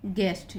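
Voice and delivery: गेस्ट with a hard g and silent u; pronunciation demo. Shown as a demonstration. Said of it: "यहाँ पे यू silent हुआ".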